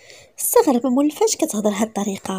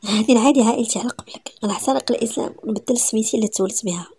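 whispered vow. Acted. Man vows to defy family.

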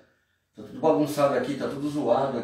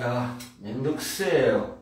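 slow dragging "Mendokuse na"; bored annoyed kid; slower than usual. Retold or imitated. Kid told to take out trash drags out annoyed "Mendokuse na". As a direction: groan it like a kid asked to do chores. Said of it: "O moleque".

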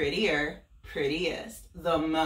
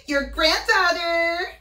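put-on bright high voice of a vain little girl; sing-song Little Red bragging; high girlish Little Red; 12 semitones higher, 7 dB louder than usual. Wolf voicing Little Red telling of her trip to Granny.

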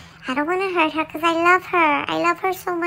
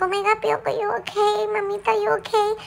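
higher, anxious checking-in; worried mom; 6 semitones higher than usual. Retold or imitated. Mom checking on the fallen Pioco, higher and worried. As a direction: fret over the little dog. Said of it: "Mommy was like".

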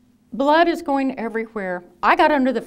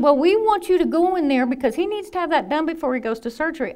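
laughing while quoting; 5 semitones higher, 4 dB louder than usual. Retold or imitated. Staff explains, teller laughing.

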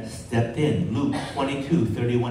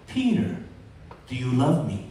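gentle question; faster than usual. Acted. Jesus gently questions Peter by fire.

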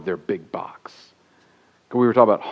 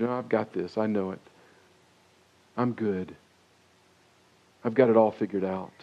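smug attitude; 3 dB quieter than usual. Retold or imitated. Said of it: "never have an attitude".

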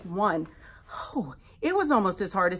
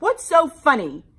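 put-on indignant kid; 8 semitones higher, 8 dB louder than usual. Kid demands loudly.

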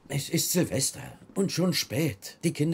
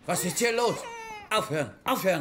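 alarmed; 6 semitones higher than usual. Acted. Father finds children fighting.

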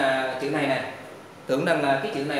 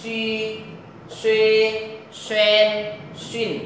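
louder, higher "suy" and "xuyên" as a model; đọc to từng chữ; loud model reading; 3 semitones higher, much slower than usual. Shown as a demonstration. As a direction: call out each word clearly. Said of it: "ta đọc lại lần nha".

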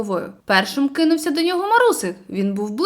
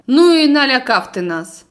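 louder, relieved outburst; relieved exclamation; 7 dB louder than usual. Acted. Boy greets friend waking on shore, relieved loud exclamation. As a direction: let the fear go in one cry. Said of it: "вигукнув журавель".

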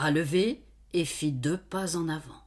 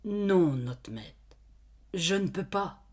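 laboured refusal. Acted. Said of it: "elle articula péniblement".

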